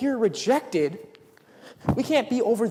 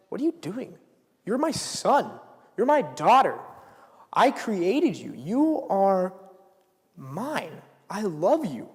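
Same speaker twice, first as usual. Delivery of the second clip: God speaking; 3 dB louder, slower than usual. Retold or imitated. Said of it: "And God's like".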